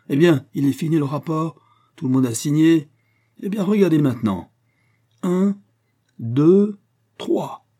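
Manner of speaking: high, loud build-up to a reveal; loud, gleeful challenge; triumphant announcement. A narrator's reading. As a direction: count off like a showman. Masked man triumphantly stages his unmasking.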